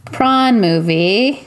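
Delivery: slow, drawn-out South African prawn; South African accent on prawn movie. Pretend. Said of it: "doing it in kind of a South African accent".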